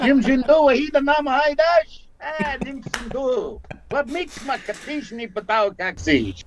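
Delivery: a Joe Pesci wiseguy fumbling Cree lines; hammed-up Brooklyn Cree; Brooklyn accent. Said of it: "she said I sounded like I was from Brooklyn".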